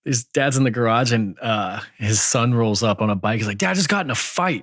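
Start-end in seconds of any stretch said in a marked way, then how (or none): 3.6-4.6 put-on high-pitched kid's announcement; imitated son. Son rolling up on a bike to dad, high imitated voice. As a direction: play a boy reporting in, high. Voicing son reporting a fight.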